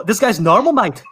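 laughing, put-on Australian accent; attempted Australian accent. Teasing co-host as Australians would, attempted Australian accent. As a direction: try an Aussie accent through a laugh. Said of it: "trying to practice my Australian accent".

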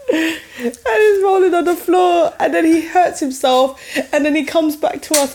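laughing. Real, not acted. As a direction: giggle through the story. Laughing retelling of toddler tantrum.

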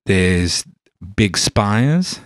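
put-on Cockney-tinged London accent; broad London geezer voice. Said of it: "but in that voice".

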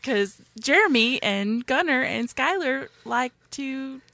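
slow, amateur Canadian promo read; attempted Canadian accent. Host plugging Golden Image podcast in attempted Canadian. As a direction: read the plug in put-on Canadian. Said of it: "And now for Canadian".

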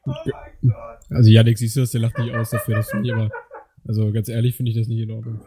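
mock outrage.

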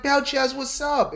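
high, loud friendly greeting; boss greeting. Retold or imitated. Boss greeting her old employee, high friendly voice.

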